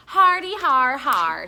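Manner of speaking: slow, loud sarcastic fake laugh; mock laugh. A narrator's reading. Stink mocking his friend's joke, sarcastic fake laugh. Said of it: "said Stink".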